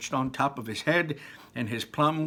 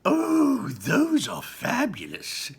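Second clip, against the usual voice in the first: very high "Oh", then slow; delighted cry; 12 semitones higher, 5 dB louder, much slower than usual. A narrator's reading. Wonka gushing over the fizzy lifting drinks, high and delighted. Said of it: "cried Mister Wonka".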